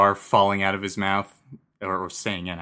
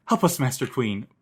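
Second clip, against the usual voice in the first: pleading; 5 semitones higher than usual. Retold or imitated. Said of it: "the subordinates are yelling".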